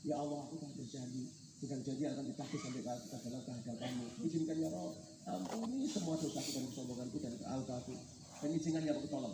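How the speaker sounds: low, soft plea for forgiveness; humble retold prayer. Ustadz prostrates himself after breaking his promise, retold humble plea. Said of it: "istighfar, mohon ampun sama Allah".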